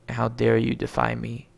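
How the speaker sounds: loud royal rebuke; a hammed-up furious king; angry king. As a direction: roar down at the defiant princess. King Neptune scolding daughter.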